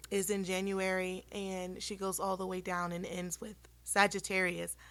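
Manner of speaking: hoarse, fading voice; losing voice. Real, not acted. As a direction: voice giving out. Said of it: "I'm sorry I'm losing my voice".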